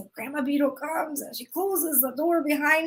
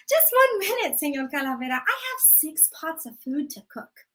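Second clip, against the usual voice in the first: grandma stalling. Acted. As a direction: sweetly beg for one more minute. Grandma stalling Death again.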